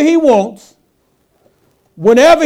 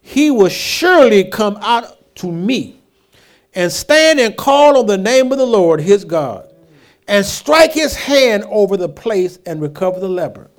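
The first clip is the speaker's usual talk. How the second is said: offended Naaman. Retold or imitated. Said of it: "went away and said".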